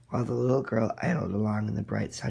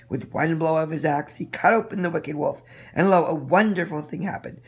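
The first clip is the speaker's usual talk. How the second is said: building louder and higher toward the rescue; excited climax narration; 4 semitones higher, 6 dB louder than usual. A narrator's reading. Narrator reads the wolf's attack and rescue, building louder. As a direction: tell the rescue with rising drama.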